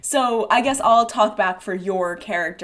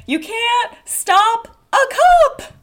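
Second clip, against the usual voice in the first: high, drawn-out theatrical lament; slow, swelling character voice; Dora in character; 8 semitones higher, 3 dB louder, slower than usual. Acted. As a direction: play Dora swooning over love, pitched high. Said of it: "let me get in, back into character".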